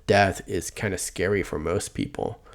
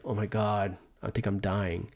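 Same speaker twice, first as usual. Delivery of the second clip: mock dying whimper; 8 dB quieter than usual. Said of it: "It's like".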